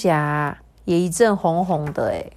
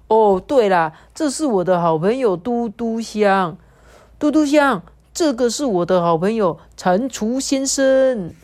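cheerful puppy voice, slightly raised; lightly voiced friendly dog; 3 semitones higher, 3 dB louder than usual. Kabu the dog introduces Dudu Xiang to the toad, cheerful. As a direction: introduce your friends proudly.

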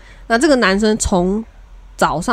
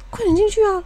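urging, excited; 10 semitones higher than usual. Retold or imitated. Urging friend to the proposal.

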